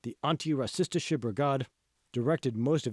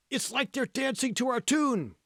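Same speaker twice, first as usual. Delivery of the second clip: amused remark; 12 semitones higher than usual. Acted. Hall amused at the protest.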